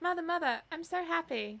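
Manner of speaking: attempted London accent. Unsure how to do it, voicing her with an attempted london accent. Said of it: "I'm just gonna do her voice".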